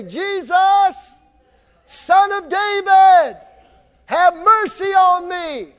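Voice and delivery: high, loud, drawn-out plea; crying out. Acted. Blind Bartimaeus calling to Jesus as he passes, crying out. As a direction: call out for mercy over a crowd. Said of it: "began to cry out and say".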